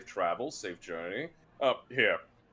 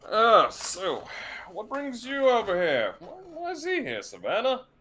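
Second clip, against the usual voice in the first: much higher, loud pointed questions; high-pitched questioning; 13 semitones higher, 9 dB louder than usual. Acted. Samson asking Savannah why the boy is here, higher. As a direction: press her with a raised voice.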